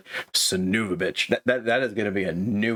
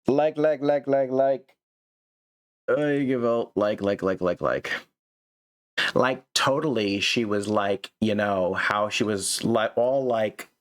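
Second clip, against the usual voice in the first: mock valley girl; 2 semitones higher, slower than usual. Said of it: "that is what you sound when you insert like".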